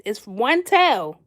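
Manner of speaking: "one tail" spoken very slowly; slow explanation. Shown as a demonstration. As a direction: drag out "one tail" for a clear lesson. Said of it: "'Cause it's one".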